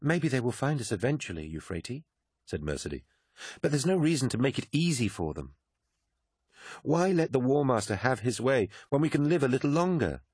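a hint of an urgent Mercedy; Mercedy, a sharp young woman. Mercedy warning Sinderman about Malachhurst, insistent.

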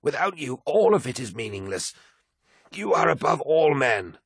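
high, fervent outburst from a devoted aide; shocked protest. A narrator's reading. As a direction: plead his greatness to him, pitched right up. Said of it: "Malakhurst was shocked".

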